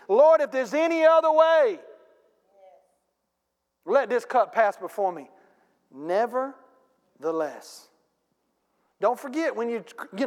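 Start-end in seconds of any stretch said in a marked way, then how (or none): 0.1-7.9 lightly voiced prayer ending in a drawn-out nevertheless; Jesus praying. Preacher voicing Jesus in the garden, pleading then yielding. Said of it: "do what Jesus did".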